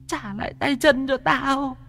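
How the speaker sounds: very high eerie ghost, slow at the end; stubborn ghost. Acted. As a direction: bargain like a spiteful spirit. (giọng ma the thé, chậm rãi mặc cả)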